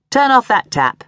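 a father ordering his crying son to stop; stern command. A narrator's reading. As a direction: snap it out like a strict dad. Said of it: "she'd heard him command".

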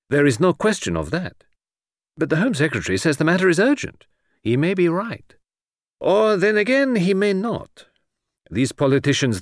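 high-pitched foreign detective, French phrases; Poirot, soothing and dismissive. Acted. Detective doubts the minister's urgency, airily dismissive. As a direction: wave the urgency away.

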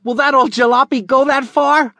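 put-on high, doubtful young boy; eager boy voice. Billy doubting the jalopy, high boyish voice. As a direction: kid poking fun at the old jalopy.

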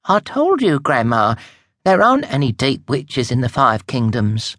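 high, exasperated correction; impatient witch granddaughter. Acted. Granddaughter correcting her elderly grandma, high and impatient. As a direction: set Grandma straight, a bit fed up.

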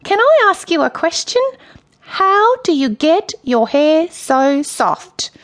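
high, drawn-out flattering character voice; nervous Michael. A narrator's reading. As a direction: gush sweetly in a high, strained voice.

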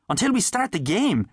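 repeating a teammate's words in disbelief; incredulous echo. A narrator's reading. Benny echoes Paddy in disbelief.

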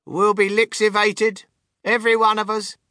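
put-on high, wailing old woman; dismayed cry. A narrator's reading. Grandmother predicting doom for the passengers, high wail. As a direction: lament impending doom at high pitch. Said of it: "cried Grandma Georgina".

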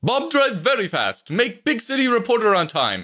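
put-on very high, eager Slavic-accented voice; strong Slavic accent. A narrator's reading. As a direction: reassure them eagerly in a thick Slavic accent. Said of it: "in a strong Slavic accent".

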